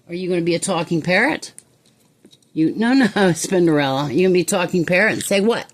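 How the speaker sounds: quick, bright coaxing of a pet; excited coaxing. Real, not acted. Owner eagerly coaxing her parrot to talk.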